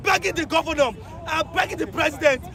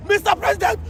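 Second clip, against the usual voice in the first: anguished cry; 5 semitones higher, slower than usual. Real, not acted. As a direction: shout each why in despair. Crying out to the president.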